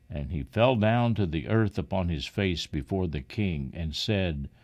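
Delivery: ordinary delivery, nothing marked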